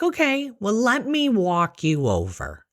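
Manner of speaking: high, lilting gentle offer; coaxing nurse. Retold or imitated. Nurse offers to walk anxious patient over, coaxing.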